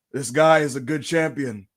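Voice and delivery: low, deadpan endorsement; measured, self-important pronouncement; The Rock. Retold or imitated. Wrestler endorsing a champion on video, deadpan. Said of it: "it'll be like".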